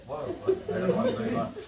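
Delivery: high, breathy whispered wow; whispered wonder. Retold or imitated. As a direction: whisper it, a little spooked. Imitating someone sensing a stare.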